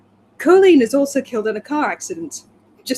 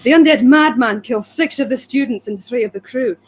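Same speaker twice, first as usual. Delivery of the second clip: put-on Scottish accent. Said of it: "My accent's terrible".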